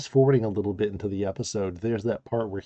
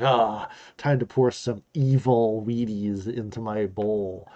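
mustache twirling villain. Pretend. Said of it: "mustache-twirling villains".

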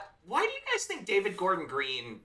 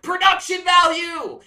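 loud, high drawn-out excited shout; stoked kid; 13 semitones higher, 10 dB louder, slower than usual. Retold or imitated. Imitating the little film kid stoked about the train, excited shout. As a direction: yell it like a thrilled little kid. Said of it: "is stoked about the train".

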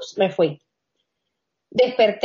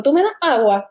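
casual; 5 semitones higher than usual. Retold or imitated. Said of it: "como si nada hubiese pasado".

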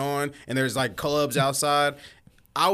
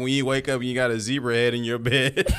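laughing; 3 semitones lower than usual. Real, not acted. Laughing through the joke.

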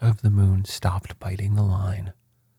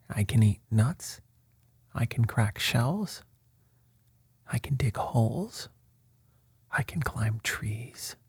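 tiny crab voice, softer and softer, often whispered; small voice; 6 dB quieter than usual. Acted. Tiny crab marvels at his new gifts, small soft voice. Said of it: "crying in a very small voice".

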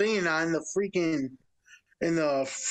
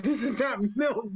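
mock exasperation; 5 semitones higher than usual. Store worker finding eggnog offered as milk, retold exasperation. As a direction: spell it out slowly, pitched up.

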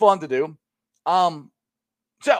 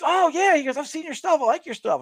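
imitating security guy.

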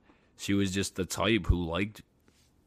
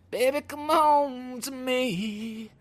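high, slow whiny plea; mock whine; slower than usual. Imitating himself begging his girlfriend, a high slow mock whine. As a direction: plead like a needy boyfriend, hammed up.

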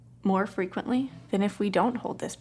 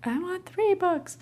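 put-on child demanding; 11 semitones higher than usual. Toddler repeating his demand.

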